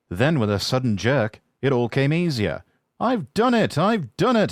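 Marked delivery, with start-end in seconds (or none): 3.0-4.5 very high, loud triumphant cry. Acted. James reaching the top of the hill, triumphant. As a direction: crow it in triumph. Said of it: "he puffed triumphantly".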